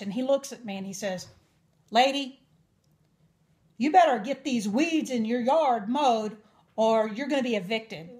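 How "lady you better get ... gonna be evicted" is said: louder, imitating a gruff landlord's threat; mock an angry man's warning. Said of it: "this very angry man".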